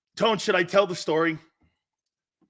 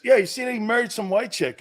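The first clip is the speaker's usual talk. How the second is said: lightly acted redneck, pitched up from the narration; redneck debater; 3 semitones higher than usual. Two rednecks debating on a porch, lightly acted redneck. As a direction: lightly voice a redneck arguing about running backs. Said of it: "they go like this".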